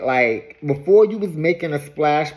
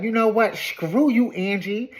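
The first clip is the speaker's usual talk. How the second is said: higher-pitched mock indignation; imitating someone mad, not shouted; retold anger; 5 semitones higher than usual. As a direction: act out a mad comeback, pitched up. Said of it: "Brittany gets mad and she's like".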